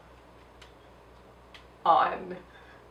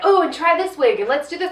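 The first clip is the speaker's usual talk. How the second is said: mock makeover helpers; 6 semitones higher than usual. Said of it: "be like".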